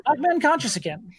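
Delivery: whiny prisoner. Acted. Prisoner complains mid-interrogation.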